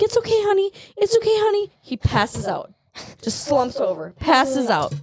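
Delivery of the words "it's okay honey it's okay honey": retold soothing. Re-enacts soothing fainting child.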